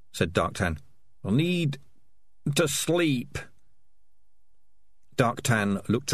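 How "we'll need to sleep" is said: put-on tired old rat. A narrator's reading. Old rat leader, exhausted.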